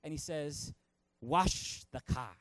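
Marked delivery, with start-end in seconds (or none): 1.2-2.3 slow, low karate master's order; drawn-out, deep-pitched mock command; Mister Miyagi. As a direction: draw out each word like a terse old teacher.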